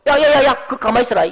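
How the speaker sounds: loud, high scolding call; Jesus warning the overeager Peter, loud and stern. Pretend. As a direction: tell him firmly to stay put. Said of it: "예수님도 상식적으로".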